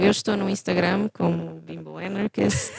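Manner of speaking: clipping, distorted voice; distorted mic. Real, not acted. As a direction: voice crackling through a bad mic. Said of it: "estás com a voz distorcida outra vez".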